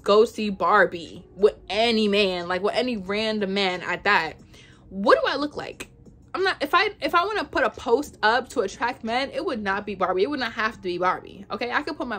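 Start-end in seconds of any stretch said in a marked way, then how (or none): 4.9-7.6 whispered aside. Real, not acted. Incredulous aside about Jay's accusation.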